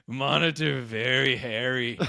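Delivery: slow, put-on simpleton delivery; silly deadpan explanation. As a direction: lightly put on a goofy voice, half laughing. Retold silly explanation while shaving monitor.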